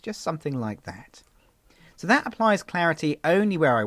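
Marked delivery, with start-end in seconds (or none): 0.0-1.2 unvoiced whisper under the breath. Real, not acted. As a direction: whisper it to yourself while working. Whispering while painting in clarity.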